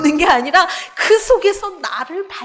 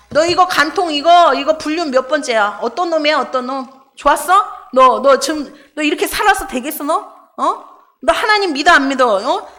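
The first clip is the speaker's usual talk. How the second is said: hammed-up hustler badgering the woman for payment; mock con man Jesus. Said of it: "이거 완전 사기꾼이죠". (다그치는 사기꾼 흉내, 약간 크게)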